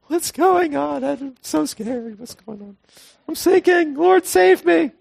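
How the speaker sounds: high, frantic panicked cry; mock panic. Believer sinking hours after a miracle, high panicked cries. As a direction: play the scared one sinking.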